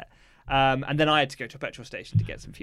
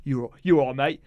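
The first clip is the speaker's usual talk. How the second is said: bad Australian accent. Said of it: "That's not an Australian accent".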